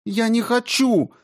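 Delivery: very high, tearful wail; child crying out, voice up high; crying girl. A narrator's reading. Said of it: "Маша опять заплакала". (плачущая девочка, очень высоко)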